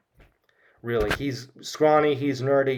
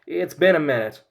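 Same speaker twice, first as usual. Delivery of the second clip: high, loud folksy mom; sweet and chirpy, pitched up like a country mother; mother saying goodbye on speakerphone, high and loud; Ma Kent; 4 semitones higher, 4 dB louder than usual. Retold or imitated. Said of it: "who says".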